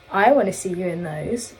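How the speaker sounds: mild mock-creepy imitation; weird creepy voice. Imitating friend's remark about the trousers, weird creepy voice. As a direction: lightly put on a creepy voice. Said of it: "weird, creepy voice".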